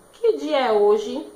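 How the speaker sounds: slow, loud question with the tune of a question. Shown as a demonstration. Teacher showing pupils how a question sounds, loud questioning tune. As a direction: ask it clearly for the class. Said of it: "Sempre no final da pergunta".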